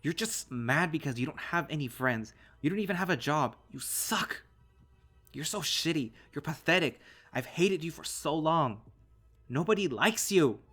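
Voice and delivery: loud, high-pitched hurtful shouting; enraged youngster yelling, pitch way up; furious tirade. A narrator's reading. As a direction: shout insults to wound your father. Son screams insults at father.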